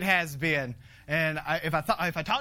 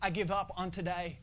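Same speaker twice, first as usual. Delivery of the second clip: softer, slow, giving up; tired prayer of giving up; weary surrender; 4 dB quieter than usual. Retold or imitated. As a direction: sigh it out like you're beaten. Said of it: "I told the Lord, I said".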